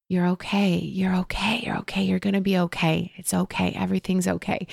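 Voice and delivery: a mother calming her little boy, lightly imitated; soothing a hurt child. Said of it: "she would just soothe him".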